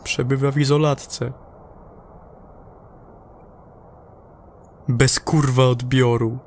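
bitter astronaut reporting in over the radio; a spent crewman cursing through his log; exhausted astronaut's transmission; weary astronaut report. Acted.

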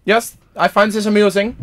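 put-on preen in a hammy German accent; camp German accent. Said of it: "Fey German".

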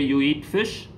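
"You eat fish" rising on "fish"; questioning intonation. Shown as a demonstration. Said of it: "It is actually in intonation form".

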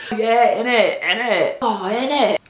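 put-on British "innit", tossed out repeatedly. Shown as a demonstration. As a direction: agree like a Brit with innit. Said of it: "The Brits".

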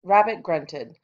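story read aloud with clear punch on key words; expressive read-aloud. Shown as a demonstration. Teacher reading a rabbit story to students, expressive stress. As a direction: model emphatic reading for the class. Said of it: "Okay, here I go. Listen for the stress".

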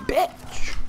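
lightly voiced pirate arr, high and soft; a quick silly pirate noise at them; playful hint of a pirate; mock pirate growl. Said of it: "You just tell them".

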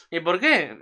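giggly rhetorical question; laughing. Real, not acted. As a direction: tease the answer while laughing.

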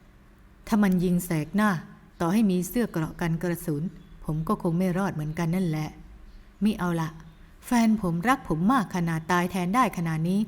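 gentle scolding man. Acted.

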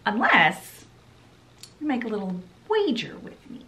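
high, sing-song taunt; scheming villain fairy. Retold or imitated. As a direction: dangle the bet like bait. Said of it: "the Scarlet Fairy's like".

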